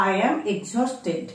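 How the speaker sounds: slow, drawn-out. Shown as a demonstration. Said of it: "অত্যন্ত ক্লান্ত হলে আমরা বলতে পারি".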